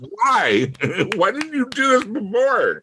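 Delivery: high-pitched exasperated quote; incredulous protest. Acted. Podcaster mocking characters who mask up only for the autopsy, incredulous. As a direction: protest it high, half-laughing in disbelief.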